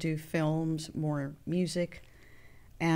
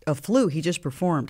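incredulous; 4 dB louder than usual. Retold or imitated. Disbelief at manager's excuse.

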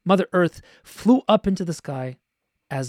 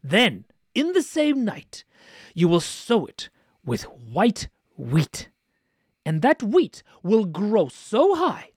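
lightly voiced stern king, slow, ending in a whisper; a hint of a cross ruler laying down the law; stern king setting a task; 3 semitones higher, slower than usual. King of Underland ordering Ivanushka, lightly voiced and slow.

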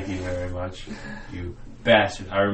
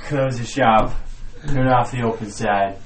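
mock commands; 8 dB louder than usual. Mock orders.

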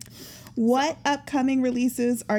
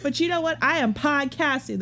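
ordinary delivery

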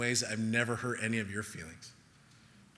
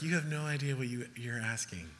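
loving reply; 6 dB quieter than usual. Retold or imitated. Jesus answering the disciples' mother, imitated lovingly and softly. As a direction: let it fall away gently, kindly. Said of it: "Jesus just so lovingly".

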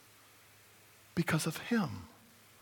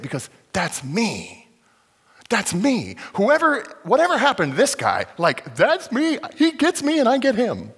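overjoyed to be seen; thrilled recognition; 8 semitones higher, 7 dB louder than usual. Acted. Eunuch recognizing himself, voiced.

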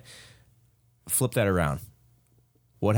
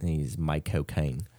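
put-on Michael Caine accent; 3 semitones lower, slower than usual. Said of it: "Say Michael Caine in his accent".

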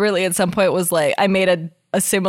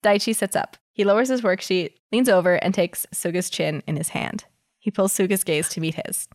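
story narration. Acted. Reads fanfic aloud.

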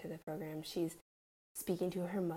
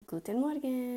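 put-on modeling for a child; 7 semitones higher, 5 dB louder than usual. Shown as a demonstration.

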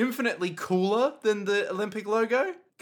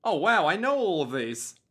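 mock proud; 5 semitones higher, 5 dB louder than usual. Real, not acted. Mock pride at recognising art.

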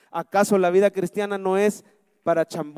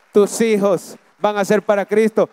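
loud declaration; 4 dB louder than usual. Shown as a demonstration. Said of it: "Lo voy a decir de nuevo".

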